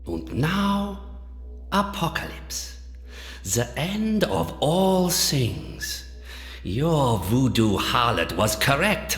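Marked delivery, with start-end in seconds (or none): 0.0-6.0 ominous hush. Acted. Doctor announcing the end of all things, ominous. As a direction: let each phrase hang, hushed and menacing. Villain announces apocalypse after rant.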